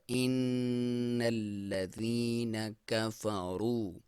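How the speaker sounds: إِنَّ nasal hum held long; slow recitation with ghunna. Shown as a demonstration. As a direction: hum the noon through the nose. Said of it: "کا کو باریک".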